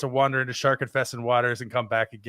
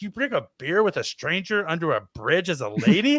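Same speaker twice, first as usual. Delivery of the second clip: higher-pitched retold disbelief; incredulous question; 4 semitones higher than usual. Man questioning a woman's drink under a bridge, incredulous. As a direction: question it in mock astonishment, pitch swinging up.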